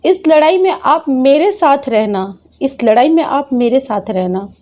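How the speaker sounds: a mild retold sob-plea, voice lifting; retold tearful plea. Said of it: "रो रो कर बोला".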